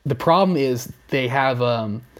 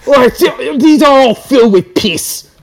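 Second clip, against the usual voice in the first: much higher, louder hammed-up rant through a laugh; mock narrator yell; 11 semitones higher, 9 dB louder than usual. Imagined narrator squeezing kookaburras, loud mock rant. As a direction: rant like a host gone mad. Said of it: "I'm just imagining him".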